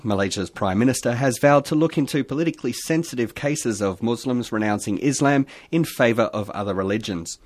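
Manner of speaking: formal news read; newsreader voice. Shown as a demonstration. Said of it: "I'll use my newsreader voice now".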